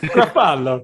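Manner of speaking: gruff Gruffalo voice. Shown as a demonstration. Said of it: "I pronounce Gruffalo as if he's".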